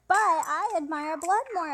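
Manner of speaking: imitating a boastful exclaim; eager boast. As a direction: push it like a proud fan. Elliot insists, exclamation mark.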